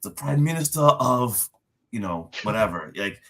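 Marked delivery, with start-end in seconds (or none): 0.0-1.5 higher, mock-formal introduction; lightly pompous master of ceremonies; grand title announcement. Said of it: "it's that long speech".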